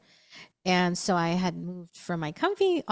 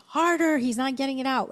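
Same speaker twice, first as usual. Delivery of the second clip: raised, high urgent shout; pitched-up retold urgent cry; retold yell; 5 semitones higher than usual. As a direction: yell at him to push harder. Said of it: "I'm, like, screaming".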